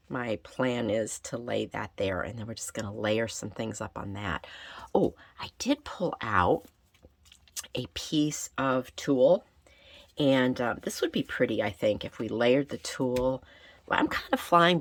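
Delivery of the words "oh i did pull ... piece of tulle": whispering. Real, not acted. Quietly remembering the tulle.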